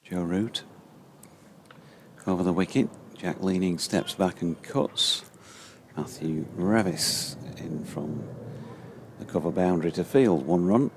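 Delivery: measured ball-by-ball call; live cricket commentary. Acted. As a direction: describe each ball as it is bowled.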